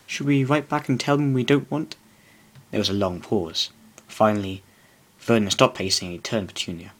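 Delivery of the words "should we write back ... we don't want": a touch higher, hesitant and unsure; stammering. Acted. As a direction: stumble through the suggestion nervously. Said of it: "Petunia stammered".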